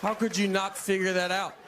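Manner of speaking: mock outrage at a guest; mock exasperation. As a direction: scold them like the dumbest person alive. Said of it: "I have to go".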